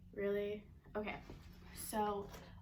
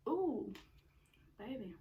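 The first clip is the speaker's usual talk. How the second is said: excited; slower than usual. Real, not acted. Savoring a bite.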